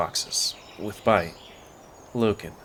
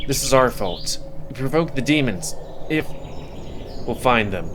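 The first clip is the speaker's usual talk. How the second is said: tense worry; 3 semitones higher than usual. Acted. Panicked search for missing children.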